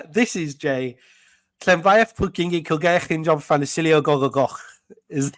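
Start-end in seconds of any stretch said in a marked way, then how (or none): 1.6-4.6 a rapid run at the long Welsh town name; attempted Welsh place name. Shown as a demonstration. Host reads Jay the longest Welsh town name. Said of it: "Give it a go".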